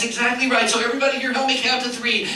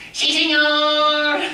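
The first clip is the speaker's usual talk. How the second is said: higher slow puppet reply; puppet dog voice; 5 semitones higher, 4 dB louder, much slower than usual. Acted. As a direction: draw it out as the dog. Puppet Chico answers.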